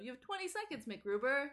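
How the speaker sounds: high, bright announcer-style countdown; peppy Kristen Wiig voice. Retold or imitated. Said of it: "the peppy Kristen Wiig voice".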